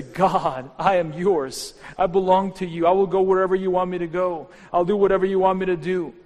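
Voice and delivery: loud, rising prayer of surrender; fervent surrender prayer. Pretend. Modelling a prayer of surrender for the congregation, loud and fervent. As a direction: pour it out as a full-voiced vow. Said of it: "and say".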